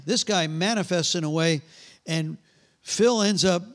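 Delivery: ordinary talk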